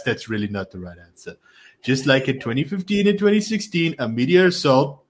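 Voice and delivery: boastful politician impression, phrases starting strong and falling away; Donald Trump. Reading Trump's statement on Ron to a co-host, mock-Trump voice. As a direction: keep up a showy Trump accent, punching the brags. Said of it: "do it in my Trump accent".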